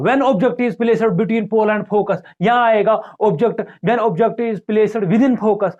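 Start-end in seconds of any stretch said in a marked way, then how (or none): 0.1-2.2 slow dictation. Shown as a demonstration. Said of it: "बताओ". 3.9-5.7 slow dictation. Shown as a demonstration. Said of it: "बताओ".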